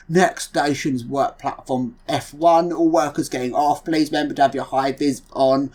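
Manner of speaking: bored member of staff. Pretend. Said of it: "a really bored member of staff".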